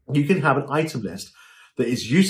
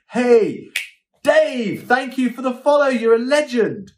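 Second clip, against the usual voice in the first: much higher, bright quick thanks to a follower; upbeat shout-out; 10 semitones higher, 4 dB louder, slower than usual. Shown as a demonstration. Host thanks viewer Dave for the follow, bright upbeat. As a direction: hype up a new follower. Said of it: "maybe say".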